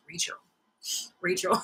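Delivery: high little cat voice calling a name; talking cat. Acted. Sitcom cat talking to its paranoid owner, high voice. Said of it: "the cat talking to her".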